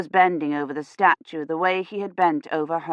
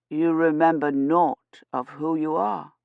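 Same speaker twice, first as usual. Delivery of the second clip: lightly voiced priest; 2 semitones lower than usual. Priest questions Kivrin.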